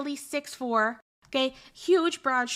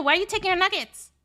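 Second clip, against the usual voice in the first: put-on higher, louder tough-girl demand; retold tough-girl yell, higher and louder; 5 semitones higher, 3 dB louder than usual. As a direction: shout it at him in her face. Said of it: "a very tough girl kind of, like, accent".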